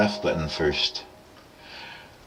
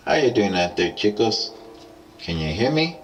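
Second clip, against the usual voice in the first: toy echo microphone. Real, not acted. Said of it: "Loud and echoey".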